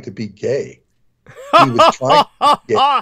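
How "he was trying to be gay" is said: high, loud, camp put-on voice; mocking voice. Repeating the cartoon's joke to the host for laughs, in a high camp mock voice. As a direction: ham it up as a mocking caricature.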